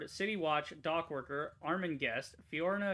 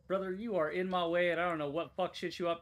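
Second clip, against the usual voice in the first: manly brute voice; 2 semitones higher than usual. Retold or imitated. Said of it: "he's got this manly brute voice".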